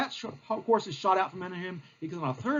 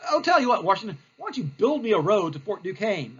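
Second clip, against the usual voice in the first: blustering general; 4 dB louder than usual. Acted. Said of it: "And Bulldog".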